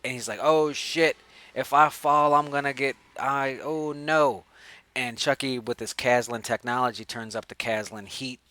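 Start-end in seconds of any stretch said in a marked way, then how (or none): 0.4-4.4 louder, higher mock alarm; hammed-up dangling-over-a-blade dread; mock panic. Super hanging over the buzz saw, in mock panic.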